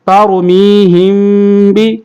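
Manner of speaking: ترمیہم بی with the mim hummed fully through the nose; slow, give the mim its full nasal length; full ghunna. Shown as a demonstration. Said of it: "رواں میں آپ کا غنہ پورا ہونا چاہیے".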